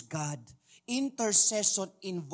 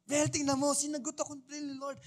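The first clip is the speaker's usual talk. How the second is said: joyful boasting; 9 semitones higher, faster than usual. Retold or imitated. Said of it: "Parang kay Lord".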